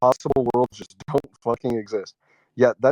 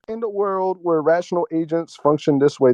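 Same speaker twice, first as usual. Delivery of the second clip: slow deliberate; 3 semitones higher, slower than usual. Retold or imitated. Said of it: "So I'd just be like".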